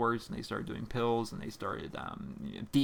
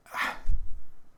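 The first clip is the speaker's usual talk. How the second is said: loud exasperated breath out; defeated sigh; 7 dB louder than usual. Real, not acted. Host abandons pronouncing a viewer's name, loud sigh. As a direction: give up with a heavy sigh.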